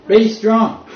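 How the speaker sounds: Be strong called out high and loud with a laugh; loud, laughing proclamation; emphatic command. Shown as a demonstration. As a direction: boom it out like an order from God. Emphatic reading of God's command.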